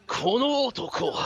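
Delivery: lightly hammed epic announcer. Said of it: "the announcer voice".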